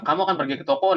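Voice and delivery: "toko" rising at the end as a question. Shown as a demonstration. Teacher shows students the question tune, rising. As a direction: let "toko" climb like a question. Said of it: "nah beda ya".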